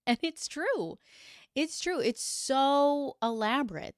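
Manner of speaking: can't help laughing at how wild it is. Real, not acted. Narrator to viewers, laughing in disbelief.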